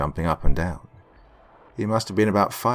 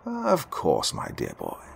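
gentle, kindly reassurance, trailing softer; tender old artist voice; warm answer; 4 dB quieter, slower than usual. Acted. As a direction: comfort a child kindly. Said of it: "he warmly answered".

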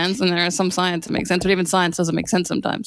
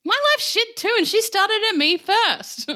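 much higher, drawn-out protest; mock indignant; 12 semitones higher, slower than usual. Claire defending herself for arguing with Debbie, mock indignant. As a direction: protest in a high, hammed-up self-defence.

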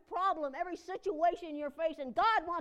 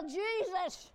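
retold yell; 3 semitones higher than usual. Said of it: "I just yell".

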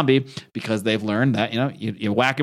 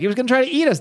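put-on very high, whiny child protesting; a little boy insisting he was right; defensive kid; 12 semitones higher, much faster than usual. Kid defends himself to dad.

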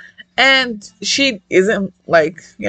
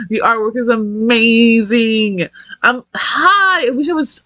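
slow words through leftover laughter; real laugh in the voice; 3 semitones higher, slower than usual. Real, not acted. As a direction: still giggling as you say it. Still laughing while praising art.

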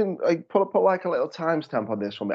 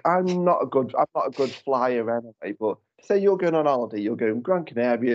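usual speaking voice

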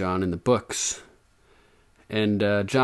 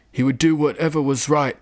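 raised, firm declaration; ringing; 5 semitones higher, 3 dB louder than usual. A narrator's reading. Jon defending his father to the maester, ringing. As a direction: ring it out to cover hesitation. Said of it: "ringingly, to make up for his hesitation".

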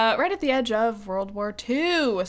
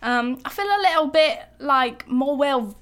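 hammed-up British accent, slowing on "more well"; bad British accent; 3 semitones higher, 4 dB louder than usual. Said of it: "worst British accent I've done".

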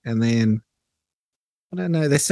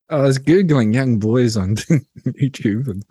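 laughing. Real, not acted. Laughs at own awkward joke.

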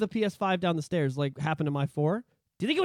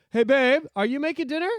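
wheedling husband; 3 semitones higher, 3 dB louder than usual. Retold or imitated. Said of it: "forty-year-old men are like".

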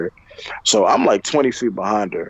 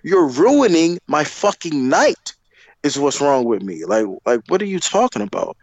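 retold furious outburst; 8 semitones higher than usual. Retelling yelling at his girlfriend who ruined his night. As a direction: blast back at her, outraged. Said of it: "And I'm like".

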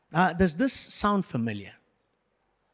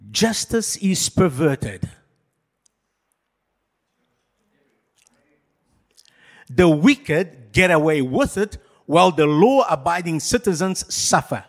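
dramatic reading. Shown as a demonstration. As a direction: read it like grim news. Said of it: "I'm gonna read some statements".

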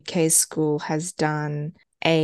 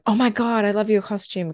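put-on preteen girl voice; 5 semitones higher than usual. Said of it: "all the older girls were, like, going".

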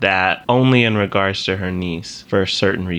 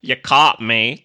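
mock caught confession; 2 semitones higher, slower than usual. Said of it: "I was hiding how I really talk".

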